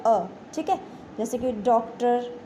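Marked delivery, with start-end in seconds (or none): 0.1-0.3 अ said as ऑ, between आ and ओ; open, rounded 'aw' for अ; in-between vowel. Shown as a demonstration. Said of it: "इनके बीच की होती है". (अ को आ और ओ के बीच का 'ऑ' बोलें)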